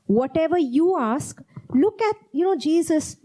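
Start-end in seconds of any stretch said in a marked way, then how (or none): 0.0-1.4 "you" in "Whatever you ask" pressed and falling; stress on you. Shown as a demonstration. Preacher insisting the asking is yours, "you" stressed. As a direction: lean on "you", let the phrase fall. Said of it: "not someone else asks".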